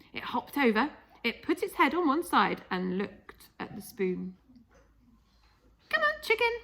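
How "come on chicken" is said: coaxing. Acted. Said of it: "George said".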